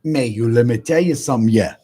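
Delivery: light mock Cajun, laid-back; a touch of Cajun accent. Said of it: "the Cajun accent".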